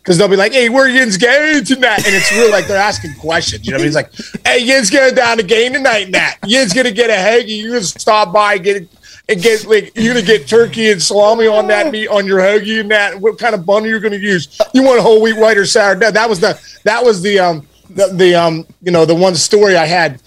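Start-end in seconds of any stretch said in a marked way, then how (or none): 0.5-2.0 higher, slow Pittsburgh Yinzer drawl; Pittsburgh accent. Retold or imitated. Imitating Pittsburgh locals asking about tonight in a higher, slow Pittsburgh accent. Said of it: "they call the Pittsburghers the Yinzers". 4.5-15.9 higher Pittsburgh Yinzer voice; Pittsburgh accent. Retold or imitated. Mimicking a Pittsburgher asking about hoagie orders in a higher Pittsburgh accent. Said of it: "they call the Pittsburghers the Yinzers".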